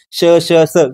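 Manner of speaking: श, श, स as separate sounds with air pushed out; sibilant demonstration. Shown as a demonstration. Teacher showing students how air rushes out, demonstrated sibilants. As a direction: sound out श, श, स like escaping cooker steam. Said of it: "कुकरच्या शिट्टीसारखी बाहेर पडते".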